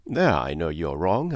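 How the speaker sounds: a touch of warmth; warmly. Acted. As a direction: gently set her right. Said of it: "I said warmly".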